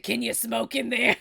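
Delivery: put-on loud day-drunk woman voice; brash drunken character voice; drunk Elevator Woman. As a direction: blare it out like a swaying drunk. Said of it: "do that woman's voice".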